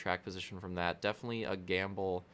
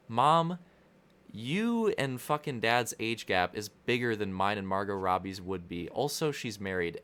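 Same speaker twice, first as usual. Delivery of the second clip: loud, protesting comeback; exasperated retort; 5 dB louder than usual. Retold or imitated. Son arguing with his mom about an age gap, loud protest. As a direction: fire the argument back at mom.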